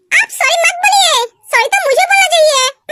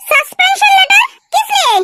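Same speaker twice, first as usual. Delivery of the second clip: higher-pitched questioning echo; startled disbelief; 4 semitones higher than usual. Acted. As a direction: query it in disbelief. Shocked at suspension letter. (हैरानी भरा सवाल)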